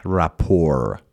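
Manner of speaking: "rapport" said slowly as "ra-POR", no final T; silent final T. Shown as a demonstration. Teacher showing students the reading, "rapport" with silent T. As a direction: leave the T off the end of "rapport". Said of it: "تی آخر ... تلفظ نکنید".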